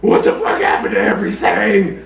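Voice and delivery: mild startled confusion, stretched out; retold freak-out. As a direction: act lightly freaked out by what happened. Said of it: "freaking out".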